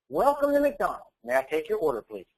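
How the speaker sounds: chirpy counter greeting. Retold or imitated. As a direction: put on the eager trained-employee voice. Trained new counter worker greeting.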